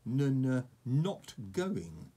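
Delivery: stubborn. Acted. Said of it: "said Toothless stubbornly".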